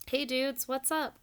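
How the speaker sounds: loud, high happy greeting; cried out. Acted. Clutch greets her band buds, crying out loud. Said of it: "Clutch cried".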